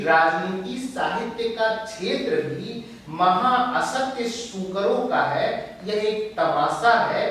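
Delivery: emphatic reading of verse; poetry recitation. Acted. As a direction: declaim the lines with measured stress. Recites the poet's lines.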